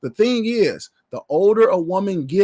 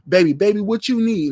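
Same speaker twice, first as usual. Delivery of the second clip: coddling mother; 3 semitones higher than usual. Retold or imitated. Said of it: "coddle their sons".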